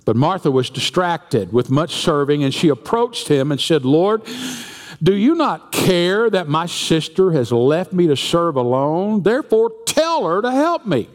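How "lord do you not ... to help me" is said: rising, pleading whine to the Lord; whiny complaint. Acted. Martha complaining to Jesus about her sister, whining. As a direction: whine that your sister left you alone. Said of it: "That's how she said it, too".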